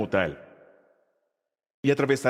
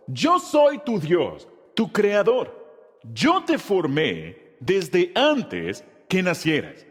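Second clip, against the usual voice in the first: slow, measured reciting for the class to follow; teacher reciting slowly with the class; slow group recitation; slower than usual. Shown as a demonstration. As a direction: lead the congregation word by word. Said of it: "¿Están listos? Ahora".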